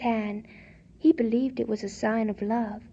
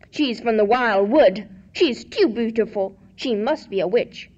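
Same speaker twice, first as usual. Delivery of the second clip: muttering archbishop; 5 dB louder than usual. Acted. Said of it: "shook his head and muttered".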